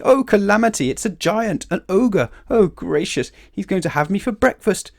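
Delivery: high, loud hysterical babble; hammed-up storybook panic; panicked screaming. A narrator's reading. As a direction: wail in terror of being eaten. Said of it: "he screamed".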